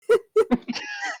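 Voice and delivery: high shrieking laugh; loud startled laugh. Real, not acted. Jump scare startles players.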